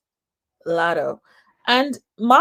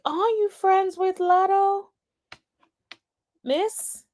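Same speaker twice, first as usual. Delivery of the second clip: much higher-pitched, pointed question; put-on high voice, calling her out; mock questioning; 11 semitones higher, slower than usual. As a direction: pose it as a high-pitched challenge. Mock-questioning the rapper in clip.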